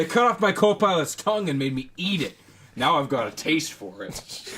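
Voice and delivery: loud, high-pitched start, slowing down after; manic character impression. Quoting an unhinged sitcom character to podcast co-hosts, manic impression. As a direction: play an unhinged man confessing something gruesome.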